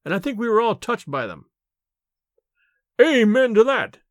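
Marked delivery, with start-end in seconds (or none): 3.0-4.0 louder, higher heartfelt exclamation; the servant echoing his master's thanks, fervently; fervent cry. A narrator's reading. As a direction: cry it out with full conviction. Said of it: "cried Bates".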